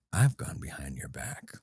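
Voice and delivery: slow, unvoiced conspiratorial whisper; confessing a secret plot, whispered low; diabolical whisper. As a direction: breathe it like a scheming secret. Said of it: "in this voice 'cause it's diabolical".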